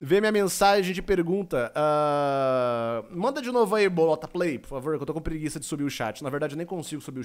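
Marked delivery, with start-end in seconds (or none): none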